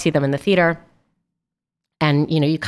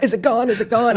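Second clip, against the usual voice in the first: anxious check; 5 semitones higher than usual. Retold or imitated. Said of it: "I was just like".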